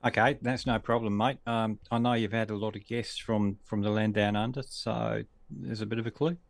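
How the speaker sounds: a half-hearted fake Australian accent; bad Australian accent. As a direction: put on a poor Australian accent as a teasing clue. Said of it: "That was a very bad Australian accent".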